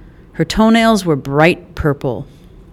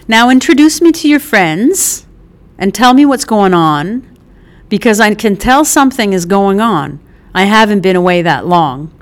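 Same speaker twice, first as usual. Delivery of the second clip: Mickey, bossy mom. Acted. Mother demanding to meet her son's friends, brisk and bossy. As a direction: boss the room around kindly.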